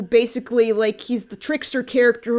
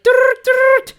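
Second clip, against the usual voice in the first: high goofy mock growl; Solid Snake voice; 13 semitones higher, 8 dB louder than usual. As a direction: silly joke take on Snake. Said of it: "I'm gonna do, like, a Solid Snake thing".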